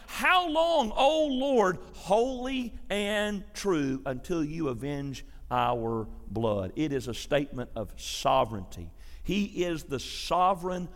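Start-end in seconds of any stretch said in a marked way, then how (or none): 0.1-6.7 crying out. Acted. Martyrs under the altar crying out to the Lord, an anguished plea. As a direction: cry out to God, then let it fall away. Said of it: "here's what they're crying out".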